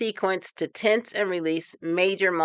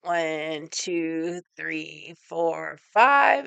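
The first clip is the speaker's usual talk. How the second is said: counting hold; much slower than usual. Shown as a demonstration. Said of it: "Tighten it up".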